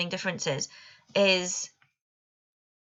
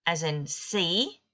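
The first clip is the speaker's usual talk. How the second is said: slow example; slower than usual. Shown as a demonstration. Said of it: "In the long vowel sounds".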